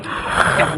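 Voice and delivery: airy, wordless mock yawn; imitated yawn. Co-host mimics Bobby caught yawning, mock yawn. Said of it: "Bobby was yawning".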